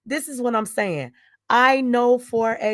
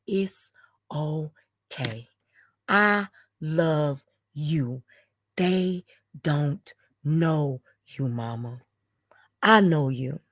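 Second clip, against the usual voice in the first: softer, lower, slow reassurance; soft comfort; 6 semitones lower, 4 dB quieter, slower than usual. Retold or imitated. Daughter reassuring her mother, soft and slow. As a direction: hush it gently.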